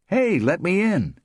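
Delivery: high, loud call at a door; demanding entry. A narrator's reading. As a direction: call out to be let in.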